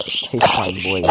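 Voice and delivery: playful game taunt; mock battle taunt. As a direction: growl it like a cheesy hero.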